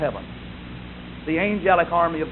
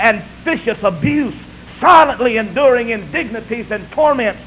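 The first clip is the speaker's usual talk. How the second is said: raised, insistent pulpit cadence; full-force preaching; 5 semitones higher, 6 dB louder than usual. Real, not acted. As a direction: drive through the long list fervently. Preacher's second climax.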